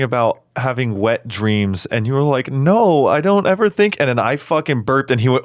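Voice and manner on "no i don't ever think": high-pitched, emphatic denial; mock protest. Podcaster imitating co-host denying having wet dreams, high protest.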